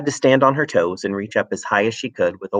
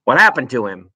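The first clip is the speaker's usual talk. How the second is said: spluttered; 2 semitones higher, 4 dB louder than usual. Acted. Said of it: "he spluttered".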